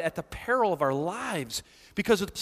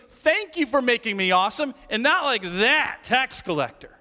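smug Pharisee; 3 semitones higher, 3 dB louder than usual. Retold or imitated. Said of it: "But it's basically".

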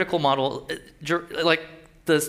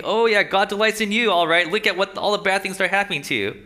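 sarcastic taunt, pitched up; mocking; 3 semitones higher than usual. Crowd taunting the sufferer over God's delight in him, mocking. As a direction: jeer with mock agreement. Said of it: "this is part of the mocking".

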